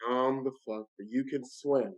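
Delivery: low-key, measured self-talk; steady yourself, pausing between words; retold calm, softening toward the end; calming himself. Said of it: "then that's when I said, "Okay, relax".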